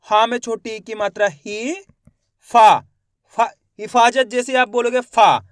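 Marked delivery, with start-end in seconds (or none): 3.4-3.4 long आ held in फा; drawn-out vowel. Shown as a demonstration. Teacher shows the long vowel sound, drawn out. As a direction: stretch the vowel of फा. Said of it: "फा का उच्चारण यहाँ पे खींच को रहा है".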